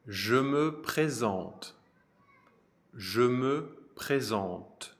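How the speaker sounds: Je me présente, each syllable slow and separate; slow French model phrase. Shown as a demonstration. Teacher modelling Je me présente for students, slow. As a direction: say Je me présente slowly for learners. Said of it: "you say".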